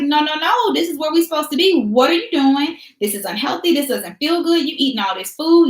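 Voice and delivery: a hint of a fussing body voice; the body scolding you; protesting body. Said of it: "your body is like".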